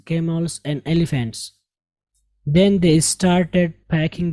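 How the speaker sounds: very slow, careful read-aloud, every word clear; slow model reading. Shown as a demonstration. Teacher reading the passage slowly for students to follow. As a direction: read it slowly for the class to copy.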